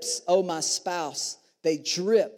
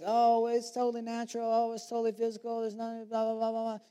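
higher, fast, mock-casual; mocking dismissive voice; 5 semitones higher, 4 dB quieter, faster than usual. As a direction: brush it off, mocking. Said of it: "it's not just like".

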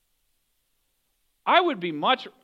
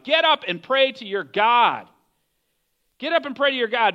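firm, raised-voice command; shouted; 4 semitones higher, 5 dB louder than usual. A narrator's reading. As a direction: read the captain's order with some force. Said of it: "he shouted".

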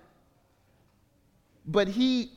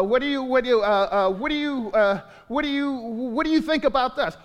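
higher, louder, stammering question; mock Facebook asker; 5 semitones higher, 4 dB louder than usual. Pastor mocking someone polling Facebook, louder and higher. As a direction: ham up a clueless online asker. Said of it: "you ask somebody".

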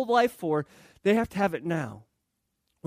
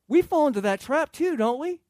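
usual speaking voice

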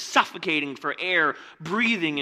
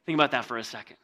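ordinary talk, nothing marked

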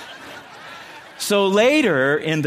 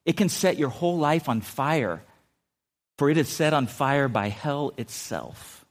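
scripture reading. Acted.

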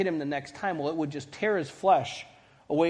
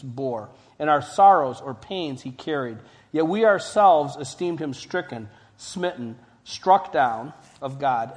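"stricken" and "struck down" hit louder; added emphasis; 5 dB louder than usual. Real, not acted. Preacher reading Isaiah to the congregation, with added emphasis. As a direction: read scripture out, punching "sorrows", "stricken" and "struck down". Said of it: "add some emphasis".

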